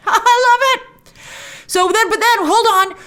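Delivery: high, giddy laughing delight; delighted laughter. Real, not acted. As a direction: burst out laughing through the words. Laughs while delighting in the show.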